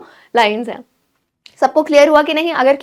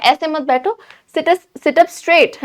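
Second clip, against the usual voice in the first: slow, firm scolding; scolding mother; 4 semitones higher, much slower than usual. Acted. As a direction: tell the child sternly to sit straight. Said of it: "जिस tone में मैं कह रही हूँ ... डांट के कह रही है". (डांट के कहना)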